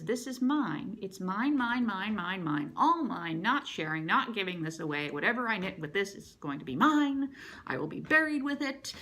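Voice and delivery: mock greedy, clinging to it; possessive whining. Possessive over her yarn.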